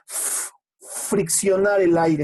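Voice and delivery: "f-" hissed, then "friccionar el aire" slowly; fricative demonstrated. Shown as a demonstration. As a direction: push the air through the f. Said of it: "así se llama fricativo". ("f-, friccionar el aire" despacio, soplando la f)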